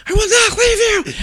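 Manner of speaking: put-on father shouting reassurance to his kids; yelling over wind. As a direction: call it up high over the storm.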